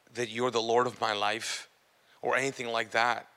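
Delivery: low, honest confession to God; retold heartfelt prayer. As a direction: pray it softly, phrase by phrase. Retells his first prayer to Jesus.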